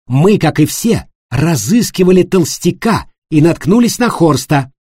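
loud, high furious denial. A narrator's reading. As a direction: lash out in fury. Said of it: "Аника в ярости вскочила".

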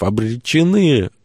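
slow, high howl of doom; Варф wailing. A narrator's reading. Disciple in the storm despairs, drawn-out wail. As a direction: wail the word, stretched right out. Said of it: "взвыл Варф".

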